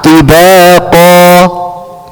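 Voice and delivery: tibaqa chanted slowly, final vowel open and hanging; stop in mid-air. Shown as a demonstration. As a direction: end tibaqa as if it could carry on. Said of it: "it can still carry on".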